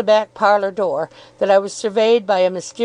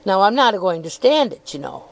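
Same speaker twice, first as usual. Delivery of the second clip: milkman calling into house. Acted. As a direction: throw the voice down the passage. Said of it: "still throwing his voice into the house".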